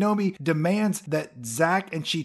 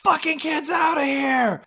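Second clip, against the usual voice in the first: high mock scream, louder; screaming mom; 13 semitones higher, 3 dB louder than usual. Mother screaming at the kids to get out, mock scream. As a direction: yell them out like an outraged mother. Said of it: "the mom, she screams out".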